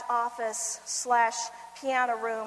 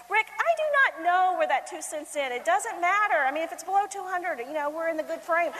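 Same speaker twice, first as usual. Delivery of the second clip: harried reply; 4 semitones higher, 3 dB louder than usual. Retold or imitated. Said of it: "talking to husband mid-chaos".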